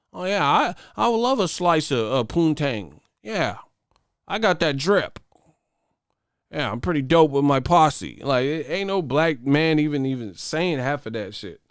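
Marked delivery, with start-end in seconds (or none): 0.1-8.2 high, stilted poser voice; Skip Bayless. Retold or imitated. Poser trying to sound down, high mocking voice. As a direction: overdo a square man claiming slang. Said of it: "talk like Skip Bayless but claim they black".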